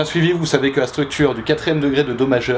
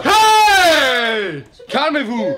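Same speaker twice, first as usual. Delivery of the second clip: superhero voice; 11 semitones higher, 3 dB louder, much slower than usual. Acted. Superhero arrives.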